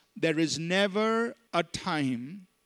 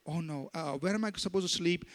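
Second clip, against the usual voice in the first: softer, whiny excuse in mockery; mock reluctant believer; 5 dB quieter than usual. Preacher mocking a member who refuses a missions trip, softer and whiny. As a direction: play the fussy member dodging the trip.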